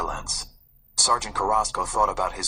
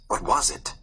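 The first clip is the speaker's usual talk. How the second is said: whispered wonder. A narrator's reading. Narrator senses a mystery.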